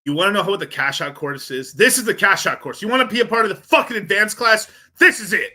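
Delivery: loud, high, emphatic hype shout; hyped-up pitch. Real, not acted. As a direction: sell it at full volume, pitch climbing. Hyping course between played clips.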